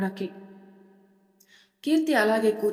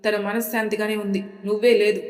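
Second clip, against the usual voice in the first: loud retort, rising at the end; shouting back; 4 dB louder than usual. Acted. Sri shouts back at Abhay in the same tone. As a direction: shout it right back at him. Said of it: "అదే గొంతుతో".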